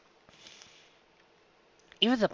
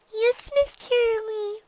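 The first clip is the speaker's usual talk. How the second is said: obedient Dinky; slower than usual. Acted. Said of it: "Dinky confirmed".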